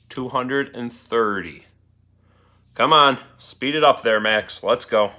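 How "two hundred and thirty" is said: slow repeat. Shown as a demonstration.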